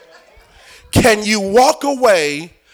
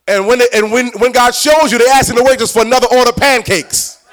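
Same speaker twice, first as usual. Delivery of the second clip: raised, driving preacher's questions; forceful preaching; 4 semitones higher, 7 dB louder than usual. Real, not acted. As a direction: press the congregation with louder, higher challenges.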